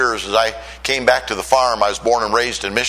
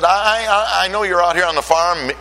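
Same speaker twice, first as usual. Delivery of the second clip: emotional pleading; 6 semitones higher than usual. Retold or imitated. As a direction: plead with your family, voice welling up. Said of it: "Man, I got emotional".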